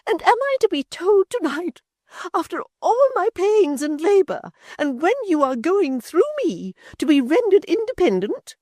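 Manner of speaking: high, passionate near-shriek. A narrator's reading. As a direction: shriek it in a passion, old mother. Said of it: "her mother almost shrieked in her passion".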